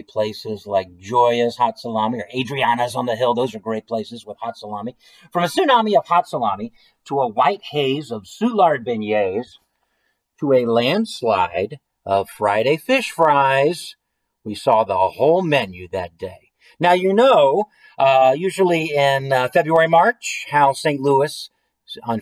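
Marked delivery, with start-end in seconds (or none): 5.3-16.5 measured read-aloud, stretching the big images; story narration. A narrator's reading. Reading a silly food-storm story to listeners, story narration. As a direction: build the list like a growing disaster. Reads a picture book aloud.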